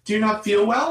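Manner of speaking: a hint of a fussing mother; worried mom. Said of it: "like I had a fever".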